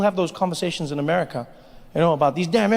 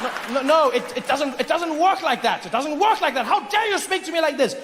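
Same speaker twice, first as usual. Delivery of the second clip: indignant Brit; 6 semitones higher than usual. Acted. Indignant Brit in acted quarrel.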